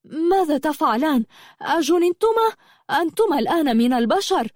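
high-pitched, scandalised outburst; outraged scream. A narrator's reading. Habiba confronts the two former horses caught misbehaving, in an outraged high-pitched cry. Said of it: "صرخت فيهما".

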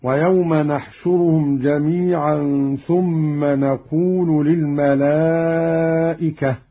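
نحشرهم and نقول begun with nun; majestic nun. Shown as a demonstration. Teacher shows Qalun's reading, نحشرهم with nun. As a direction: say نحشرهم as nahshuruhum, نقول as naqoolu. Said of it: "بنون العظمة هكذا".

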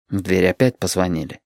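plain reading voice

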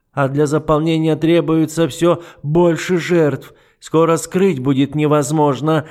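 lightly voiced icy duke, mocking; an understated sneer; a hint of the cold duke. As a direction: toy with her calmly. The duke explains coldly.

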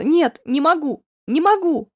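breaking free, she cries out in despair; desperate cry. Acted. She refuses, struggling.

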